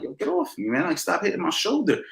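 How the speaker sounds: high, half-mock annoyed protest; annoyed retort. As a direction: push him off, mildly irritated. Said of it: "I'm getting a little annoyed".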